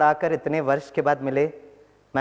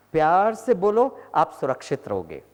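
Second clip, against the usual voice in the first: gentle loving tone. Retold or imitated. Doctor advising gently with a smile. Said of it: "मुस्कुराते हुए कहा".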